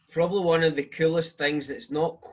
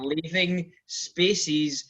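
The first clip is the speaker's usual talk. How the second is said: over-careful pronunciation; much slower than usual. Shown as a demonstration. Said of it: "start pronouncing my words".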